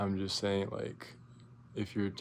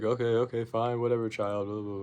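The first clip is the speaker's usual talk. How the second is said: dismissive; 4 dB louder than usual. Retold or imitated. Dismissive teacher quoted.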